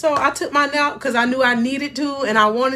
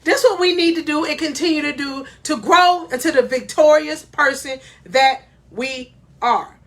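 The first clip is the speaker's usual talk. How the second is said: firm coach addressing the team, lightly acted; rally them with a touch of authority; authoritative coach. Shown as a demonstration. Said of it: "I wanna be the coach to be like".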